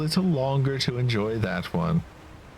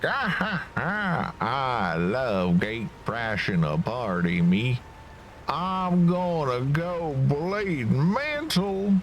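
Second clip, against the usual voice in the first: high cackle then slow drawl; southern accent; 4 semitones higher, slower than usual. Acted. Gatecrasher laughs and boasts in a southern accent. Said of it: "then he's also southern accent".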